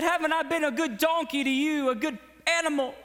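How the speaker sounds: high, reproachful donkey; the donkey reminding Balaam of its service; hurt donkey voice. Acted. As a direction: play the loyal donkey feeling wronged.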